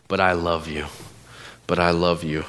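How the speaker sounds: low, gentle reassurance; tender reassurance. Retold or imitated. God to his straying sheep, tender reassurance. Voicing God's love for sheep.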